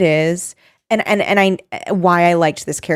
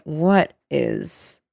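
baffled low voice; 5 semitones lower, 4 dB quieter than usual. Retold or imitated. Rena quoted, baffled by modern life.

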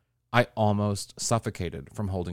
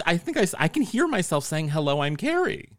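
Donald Duck voice; 6 semitones higher than usual. Pretend. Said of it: "trying to hack".

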